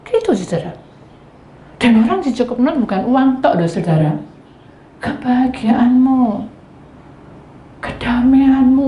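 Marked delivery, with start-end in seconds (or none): none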